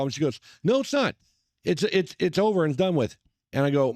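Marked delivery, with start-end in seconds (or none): 0.6-3.2 high-pitched, imitated protest; retold indignant rebuttal. Wife argues back at rude passenger, high indignant retort. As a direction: mimic an indignant wife cutting him off.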